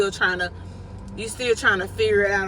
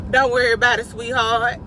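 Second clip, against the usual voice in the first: breezy brush-off; 2 semitones higher than usual. Retold or imitated. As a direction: wave off worry like nothing's wrong. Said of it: "we just be like".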